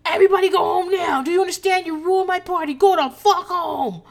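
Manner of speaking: mock scream, high and loud; Renee. Recapper acting out host of ruined party, mock scream. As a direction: imitate an irate host hollering everyone out. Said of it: "Renee is screaming".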